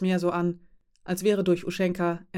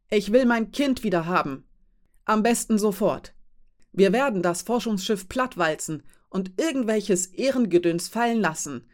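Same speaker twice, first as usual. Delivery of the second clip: angry pleading; 2 semitones higher than usual. Acted. Mother demanding her child back from the captain, angry. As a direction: hammer each demand home.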